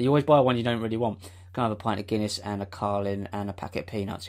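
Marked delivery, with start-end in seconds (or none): 1.5-4.3 mock deep voice. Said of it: "talk that deep".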